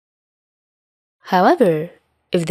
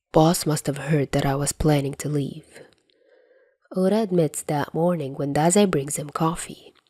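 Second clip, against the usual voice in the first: whispered; 2 semitones lower, 5 dB quieter than usual. Acted. Quiet confession.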